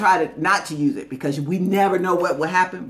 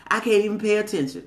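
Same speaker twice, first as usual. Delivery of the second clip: mock whiny complaint. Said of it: "With that mindset".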